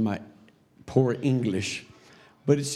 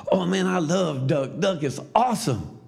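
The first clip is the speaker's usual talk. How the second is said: imitated eager delight; 4 semitones higher than usual. Canadian friend answers the Bulgarian with imitated eager delight. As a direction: gush over it, stretching the words.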